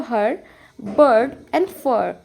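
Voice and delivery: bird and fur stretched very slowly; drawing out each example word for the class. Shown as a demonstration. Teacher demonstrating r-controlled vowels, very slow. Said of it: "ईआर की अगर हम बात करें तो".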